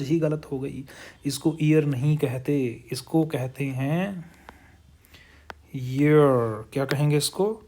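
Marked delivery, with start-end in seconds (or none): 5.8-6.7 ईयर said clearly and firmly as year; model pronunciation. Shown as a demonstration. Teacher modelling ईयर pronunciation for the class. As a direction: say ईयर cleanly, stressed. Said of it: "ये होती है इसकी pronunciation".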